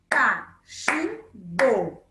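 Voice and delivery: Cachimbo very slow, ca-chim-bo, one beat per syllable; split into syllables. Shown as a demonstration. Teacher clapping out Cachimbo syllable by syllable for pupils. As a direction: clap out Cachimbo slowly in three beats. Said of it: "quando a gente bate palma?".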